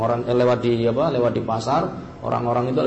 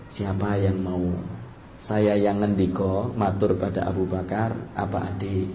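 ordinary talk, nothing marked

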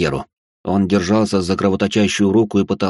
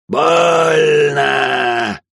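higher, louder cry of Больно!; pain shout; 6 semitones higher, 3 dB louder than usual. Acted. Wounded hunter crying out Больно! louder the second time. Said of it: "завопил хриплый голос".

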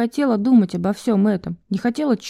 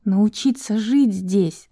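calm answer; slower than usual. Acted. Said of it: "спокойно ответила Ениса".

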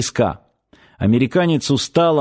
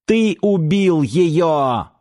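high, slow, unhinged cry; crazed accusation; 5 semitones higher, much slower than usual. A narrator's reading. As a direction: accuse him, out of your mind.

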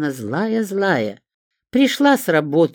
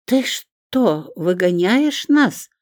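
surprised; 6 semitones higher, 3 dB louder, much slower than usual. A narrator's reading. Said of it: "а не визгливым голосом".

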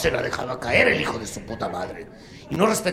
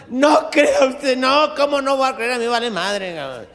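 mock soap voice; 10 semitones higher, 7 dB louder than usual. Soap character answers.

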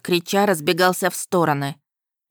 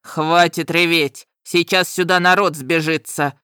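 growl. A narrator's reading. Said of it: "Зарычал дракон".

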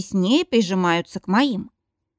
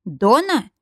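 a gasped name, startled and scared; horrified gasp; 4 semitones higher, 4 dB louder than usual. Acted. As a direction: gasp her name in shock. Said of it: "ахает он в полном ужасе".

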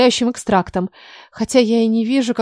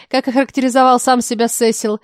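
ordinary delivery, nothing marked

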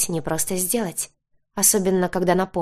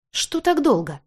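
higher, impatient question; mildly displeased, raised pitch; 8 semitones higher than usual. A narrator's reading. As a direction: grumble about being kept waiting. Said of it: "недовольно спросил Марк".

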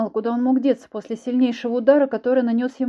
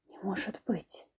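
much softer stunned whisper; 15 dB quieter, slower than usual. Acted. Ksyusha whispers in disbelief at the stranger, very soft. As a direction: barely breathe it out in shock. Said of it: "прошептала я".

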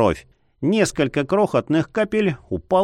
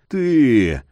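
growled warning; 2 semitones lower than usual. A narrator's reading. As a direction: growl it through the throat. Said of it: "глухо прорычал Яр".

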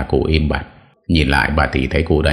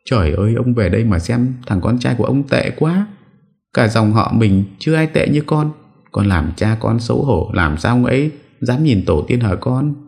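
high, acted old mother's lament; wailing lament; 8 semitones higher than usual. A narrator's reading. Mother lamenting her son's shame to his father, wailing lament. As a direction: call out to your husband in high-pitched reproach. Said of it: "vừa khóc bù lu bù loa".

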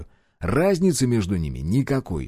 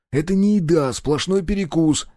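grumbling; 6 semitones higher than usual. A narrator's reading. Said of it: "продолжил брюзжать я".

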